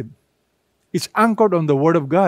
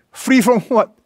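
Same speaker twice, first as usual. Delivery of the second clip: rhetorical question; 6 semitones higher, 4 dB louder than usual. Acted. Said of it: "rhetorical question to congregation".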